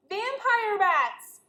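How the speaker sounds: slow, loud, high cry of alarm; dramatic alarm. Acted. Teacher reading the scary heading to the class, slow and loud. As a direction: drag out the words as if horrified. Reader reacts dramatically to danger.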